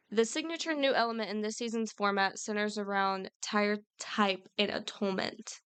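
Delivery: careful read-aloud, slowing right down at the end; measured reading, wary of tripping on a word. Real, not acted. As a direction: read it out deliberately, slowing over the tricky words. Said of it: "get my reading voice on".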